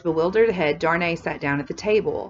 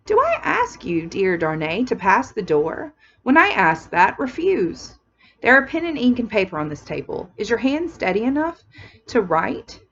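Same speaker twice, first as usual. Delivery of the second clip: urgent insistence; 4 semitones higher than usual. Acted. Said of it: "wonderful quickness".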